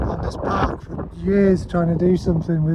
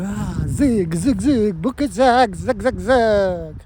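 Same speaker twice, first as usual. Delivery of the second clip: sing-song zigzag; 3 semitones higher, 4 dB louder, much slower than usual. Retold or imitated. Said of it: "and you go".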